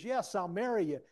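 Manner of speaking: high, loud retold acceptance; imitated fiancee accepting. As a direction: mimic her giving in with exasperated glee.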